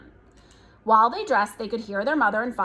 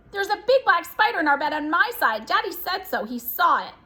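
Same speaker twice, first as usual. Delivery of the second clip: high, pressing squeal of alarm; squealing louder; 6 semitones higher than usual. A narrator's reading. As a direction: squeal it as a panicky report. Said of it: "Her mother squealed louder".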